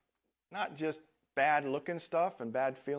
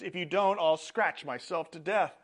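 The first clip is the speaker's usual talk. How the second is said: higher, louder desperate plea; desperate leper; 5 semitones higher, 6 dB louder than usual. A narrator's reading. Kneeling leper pleads with Jesus, higher desperate voice. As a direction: push it like a last hope.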